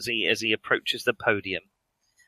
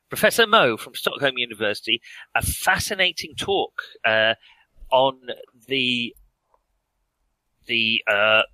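chairman's introduction. Acted. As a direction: introduce the speaker, then get cut off. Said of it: "Professor Mo interrupts him at this point".

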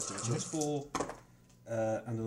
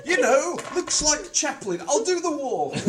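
very high, loud, laughing hard; helpless laughing; 12 semitones higher, 9 dB louder, slower than usual. Real, not acted. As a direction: squeeze the words out through laughter. Cracking up over Nazi joke.

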